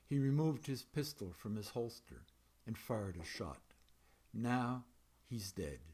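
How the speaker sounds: measured, even poetry reading voice. A narrator's reading. Poet reading a dreamlike poem to an audience, measured reading. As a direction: read the poem to the room, letting lines land.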